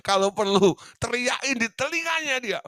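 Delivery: high teasing push to shout it in their ear; high excited urging. Real, not acted.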